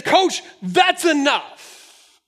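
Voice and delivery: slow, drawn-out referee warning, lightly voiced; slow stern ref warning. A referee cautions the pastor coaching, slow and stern. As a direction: mimic a ref calmly laying down the law.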